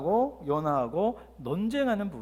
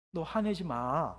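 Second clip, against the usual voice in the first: soft, slow tear-soaked plea; a grieving father's soft slow plea; tearful voice; 2 semitones lower, 5 dB quieter, slower than usual. Shown as a demonstration. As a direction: say it softly and slowly, holding back tears. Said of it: "눈물 흘기가 젖어 있는 목소리로".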